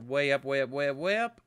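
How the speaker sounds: rising, mounting urgency; escalating rise. Retold or imitated. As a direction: step the voice up like a climbing gauge. Acts out the temperature climbing.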